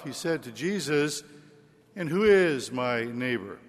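solemn liturgical Gospel reading. Real, not acted. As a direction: proclaim it like scripture at Mass. Priest proclaims the Gospel.

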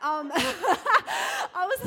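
high, slow, crying with laughter; can barely get the words out for laughing; wheezing laugh that squeaks up high; helpless laughter. Real, not acted.

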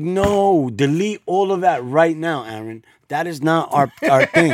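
a mother snapping at her son; scolding wife. Retold or imitated. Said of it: "She's like".

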